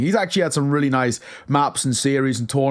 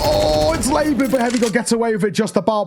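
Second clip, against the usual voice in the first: excited; 6 semitones higher than usual. Real, not acted. Tense clutch save call.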